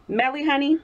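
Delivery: high, bright call of her name. Real, not acted. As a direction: sing out her name to catch her attention. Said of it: "I just screamed your name like that".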